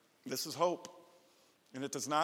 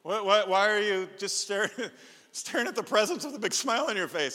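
amused surprise; 4 semitones higher, 5 dB louder than usual. Retold or imitated. Dad finds son by tree.

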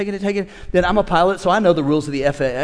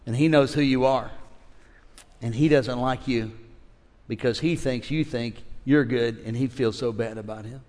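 slow, soft and calm; gentle divine voice; 5 semitones lower, 4 dB quieter, slower than usual. Retold or imitated. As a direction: speak it tenderly, like God correcting gently. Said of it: "The Lord said".

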